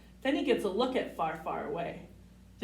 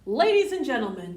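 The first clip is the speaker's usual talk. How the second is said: announcement; 2 semitones higher, 8 dB louder, faster than usual. A narrator's reading. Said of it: "Charming says to the crowd".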